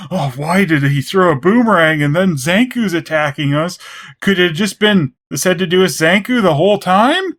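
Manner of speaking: sarcastic epiphany. Retold or imitated. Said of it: "What a mastermind".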